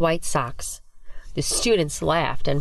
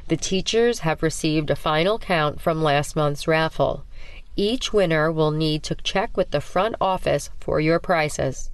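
monotone principal. Acted. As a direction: drone it like an announcement. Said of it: "in a monotone voice".

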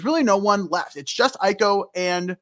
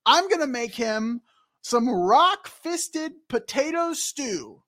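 a hint of a higher, huffy little girl; lightly voiced kid Aiko; 5 semitones higher than usual. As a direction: play a touchy six-year-old, lightly. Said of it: "just realizing the voice I'm doing here".

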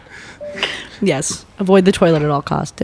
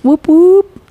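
excited cheer; 11 semitones higher, 7 dB louder than usual. Real, not acted. Cheering her own nickname.

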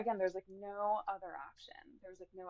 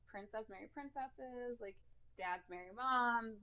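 gentle mom voice; 5 semitones higher, 10 dB louder, slower than usual. Retold or imitated. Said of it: "she's like".

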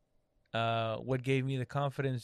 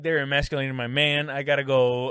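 mock outraged wife; 6 dB louder than usual. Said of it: "She wouldn't be like".

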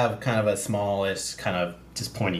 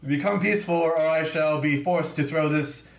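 grand warrior proclamation; 4 semitones higher, slower than usual. Acted. Craggle's grand in-character threat.

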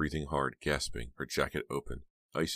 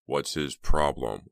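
mock innocence; 7 dB louder, slower than usual. A narrator's reading. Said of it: "rolling his eyes on mock innocence".

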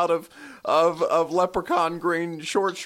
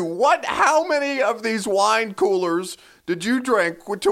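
mock outrage; 2 semitones higher than usual. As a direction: chew him out in a playful fake fury. Mock rant at cohost's partying.

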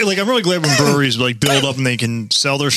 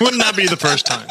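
laughing; 4 semitones higher than usual. Real, not acted. Laughing at forgetting to record.

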